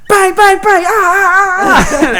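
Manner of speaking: high, loud pretend gunshots and cries; hammed-up shootout noises; mock gunfight. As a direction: yell the shots, then cry out as hit. Acting fake gunfight and getting shot.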